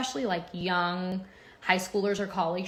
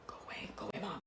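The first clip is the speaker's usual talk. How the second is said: imitating her son; 15 dB quieter, much faster than usual. Son quoted walking into class.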